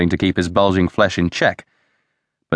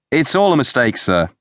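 quick, high-pitched protest; hasty interjection; 7 semitones higher than usual. A narrator's reading. Pascoe hastily intervenes with his angry boss, hurried. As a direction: jump in hastily to smooth it over. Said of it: "interposed Pascoe hastily".

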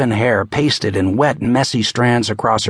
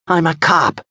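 firm raised cop voice; commanding shout; 7 semitones higher than usual. Acted. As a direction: stop her with authority. Casey shouts to stop her.

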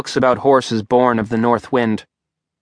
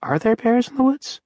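higher, incredulous question to himself; repeated to himself; 12 semitones higher than usual. A narrator's reading. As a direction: ask it again in disbelief, pitched up. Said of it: "Simon repeated to himself".

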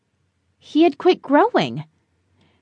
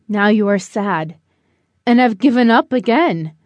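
deep creaking voice; 3 semitones lower than usual. Acted. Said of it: "In a deep, creaking voice that was barely above a whisper".

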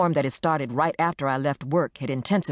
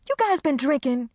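incredulous; 11 semitones higher than usual. Acted. Incredulous question.

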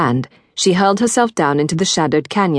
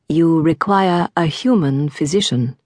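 calm alien voice. Acted. Alien guardian voice.

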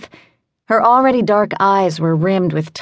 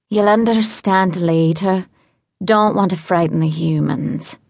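rasped. Acted. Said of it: "she rasped".

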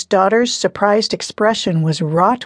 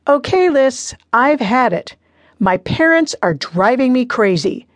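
ranting; 5 semitones higher than usual. Acted. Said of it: "Maddie ranted".

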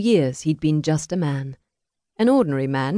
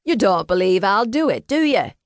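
gruff taunt rising high on the tag; gruff crook; 4 semitones higher, 3 dB louder than usual. A narrator's reading. Crook taunting Adam with the pistol, gruff rising challenge. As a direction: dare him to doubt the gun. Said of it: "the crook said gruffly".

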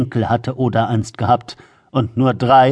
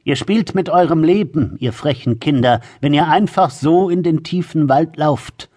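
put-on menacing grandmother warning children; lightly voiced, malicious old crone; spiteful old woman; 3 semitones higher than usual. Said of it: "sagte die alte Frau und musterte die Geschwister bösartig". (boshafte alte Frau)

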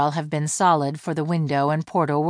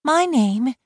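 My name, higher, spaced out and pressed; insistent repeat; 9 semitones higher, 3 dB louder than usual. Acted. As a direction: repeat it slowly so he can't ignore it. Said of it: "her chest heaved".

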